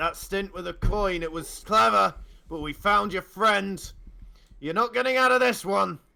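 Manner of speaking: very loud, rising, threatening shout at full volume. Narrator voices attackers threatening the listener's character, shouting. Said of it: "you hear more shouting".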